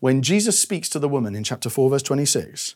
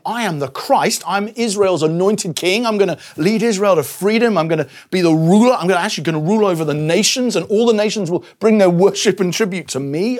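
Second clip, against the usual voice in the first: bold proclamation; 4 semitones higher, 3 dB louder than usual. Acted. Voicing Jesus's bold claim.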